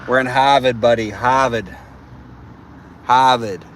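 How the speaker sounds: loud proud calls of Harvard; shouting Harvard to the stream; hyped shout. Real, not acted. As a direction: bellow the name like a tour guide gone wild. Hyping the location loudly.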